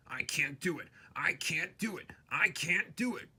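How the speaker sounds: breathless unvoiced straining; puffing whisper. A narrator's reading. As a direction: whisper it while straining uphill. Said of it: "puffed Gordon".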